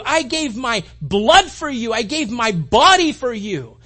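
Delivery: a hint of Jesus' loving voice; tender reassurance. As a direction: pour out love as Jesus would. Voicing Jesus forgiving the sinner.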